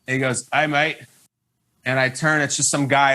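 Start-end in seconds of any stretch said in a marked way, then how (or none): 0.5-1.0 low, casual Australian "mate" greeting; Aussie accent. Retold or imitated. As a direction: lightly play an Australian guy on a bus. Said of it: "He's doing Aussie accent impersonations".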